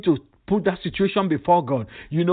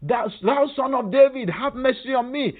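a raised, lightly voiced beggar's plea; imitating a cry for mercy; 6 semitones higher than usual. Preacher voicing blind Bartimaeus crying to Jesus, mild plea. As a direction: call out high for mercy. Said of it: "blind Bartimaeus was crying on the street".

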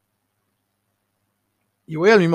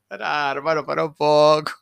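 laughing exclamation, getting louder; amused protest; 6 dB louder than usual. Real, not acted. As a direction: burst out louder between laughs. Cracking up at his story.

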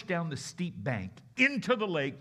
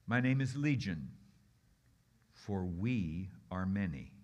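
low demon voice; 9 semitones lower, 4 dB quieter than usual. Acted. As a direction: let the many speak through one mouth. Demon answers Jesus.

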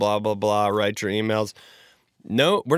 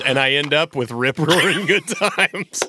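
slogan voice. Shown as a demonstration. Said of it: "on the back it goes".

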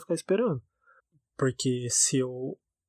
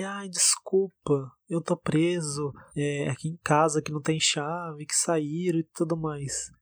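slow, slightly raised mock apology; drawn-out excuse; 2 semitones higher, slower than usual. Date excusing himself to the one left waiting, mock-apologetic. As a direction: drag out a retold, apologetic excuse. Acting out the date's late excuse.

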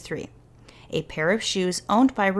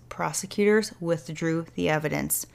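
softer, relishing each word; savoring; 2 semitones lower, 4 dB quieter than usual. Real, not acted. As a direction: savor it like a beautiful sentence. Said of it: "That is a beautiful sentence".

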